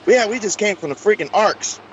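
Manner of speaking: high-pitched, chatty imitation of newcomers; casual American visitors. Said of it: "their English was so perfect".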